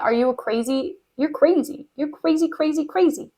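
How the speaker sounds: soft, muttered mock dismissal; quiet, repetitive scoffing; dismissive disbelief. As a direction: mutter it as if to someone mad. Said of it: "So Iago's just like".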